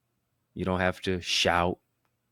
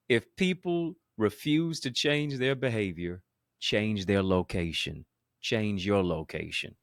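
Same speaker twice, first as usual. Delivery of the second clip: slower and weightier, each word leaned on; slow emphatic repeat; 2 semitones higher than usual. Shown as a demonstration. Preacher repeating his key line so the audience gets it, slow and emphatic. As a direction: drive it home slowly the second time. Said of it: "Let me say that again".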